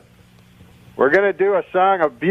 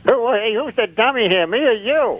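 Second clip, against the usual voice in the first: ventriloquist dummy voice; 4 semitones higher than usual. Acted. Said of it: "Rusty, say hello to Dennis".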